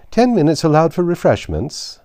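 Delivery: high, loud announcement; called out. A narrator's reading. The king announces a break in the fight, calling out. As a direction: call it out to the whole field. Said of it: "the king called out".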